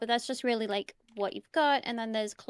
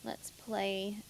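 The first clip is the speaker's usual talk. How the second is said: whispering; 3 semitones lower, 11 dB quieter, much slower than usual. Real, not acted. Settles into a calm game.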